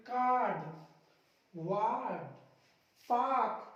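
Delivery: कार्ड, वार्ड, पार्क as "kaad, waad, paak"; long "aa" and no R in कार्ड, वार्ड, पार्क; silent R. Shown as a demonstration. Teacher showing R silent before consonants, कार्ड, वार्ड, पार्क without R. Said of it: "इसको पढ़ेंगे".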